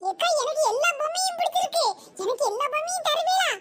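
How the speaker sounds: put-on lightly cutesy child voice; playful little-child pleading; cute little kid. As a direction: ask sweetly like a small boy. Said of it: "நல்லா கியூட்டா பேசுற".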